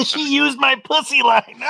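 high indignant call; mock indignant shout. Whitney calling from the back room, high indignant. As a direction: call it out offended. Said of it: "Whitney in the other room going".

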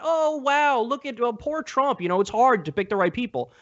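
sarcastic, sing-song mock sympathy, starting high; mock pity. Debater mocking opponent's excuses for Trump, sarcastic mock pity. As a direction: parody the other side's excuses with fake pity.

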